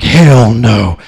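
low, forceful mock-macho voice; imitating a proud man's firm refusal; staunch refuser impression. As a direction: drop deep and declare it like a solemn vow. Same staunch guy refuses.

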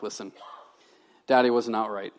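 low, soft apologetic dad; subdued, contrite re-enactment; retold apology. Dad apologizing to his kids, retold.

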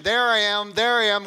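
loud, high preacher's cry; impassioned declaration. Acted. Preacher voicing Jesus found in the Old Testament, impassioned. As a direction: proclaim it at full force.

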